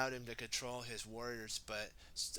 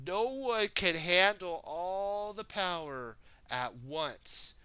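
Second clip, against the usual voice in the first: loud, high stern warning; stern mentor warning; 5 semitones higher, 5 dB louder, slower than usual. Acted. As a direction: warn like a wise master. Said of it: "Sensei Wu told".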